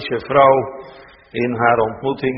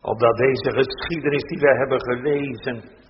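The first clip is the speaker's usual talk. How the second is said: prayer. Acted. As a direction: pray humbly to God, unhurried. Minister prays aloud.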